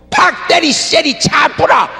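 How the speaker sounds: fiery Gyeongsang dialect outburst; Busan dialect shout. Retold or imitated. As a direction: bark it out Busan-style, slow and hard. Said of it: "그런데 여기는요".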